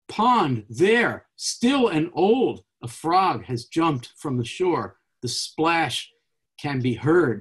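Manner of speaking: put-on slow, deliberate poem reading, "still and old" drawn out. Shown as a demonstration. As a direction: savour the stillness before the splash. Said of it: "So I'll read a few".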